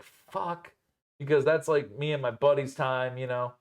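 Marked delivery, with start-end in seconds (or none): 0.0-0.7 muttered under breath. Retold or imitated. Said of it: "And I'm like, kinda like".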